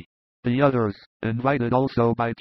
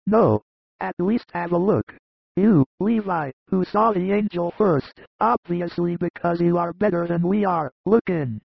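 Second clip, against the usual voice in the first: high voice, half teasing, half pleading; coaxing shepherds; 6 semitones higher than usual. A narrator's reading. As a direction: push the boy with raised pitch. Narrator voices shepherds urging Levi.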